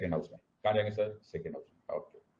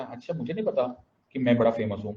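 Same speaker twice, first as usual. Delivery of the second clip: feigned ignorance; faster than usual. Retold or imitated. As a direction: act mildly as if this is news to you. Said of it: "मैंने इससे acting करी".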